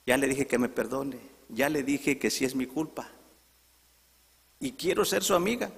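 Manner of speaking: acted plea, rising at the end; earnest pleading. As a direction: keep insisting on making peace. Woman pleads for forgiveness and friendship. (súplica insistente)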